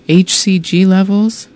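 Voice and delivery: puzzled echo. Retold or imitated. Woman repeating the nurse's jargon, bewildered and rising. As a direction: repeat the jargon back, baffled.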